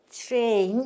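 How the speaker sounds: English-style 트레인, "chr" onset; corrected pronunciation. Shown as a demonstration. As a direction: say 트레인 with the opening t-r blended into a "ch" sound. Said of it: "이렇게 하셔야 돼".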